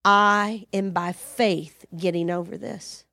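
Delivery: slow, low resolved declaration; declaration of faith. Shown as a demonstration. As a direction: declare it calmly, word by word. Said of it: "and you say".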